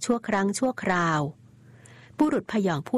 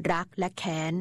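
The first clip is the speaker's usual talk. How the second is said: curt resentful retort; 4 dB quieter than usual. Acted. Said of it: "เขากระแทกเสียงขุ่นข้อง".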